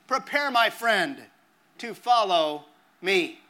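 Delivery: measured, slightly solemn verse reading; epitaph recitation. Acted. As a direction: recite line by line with pauses, each falling away.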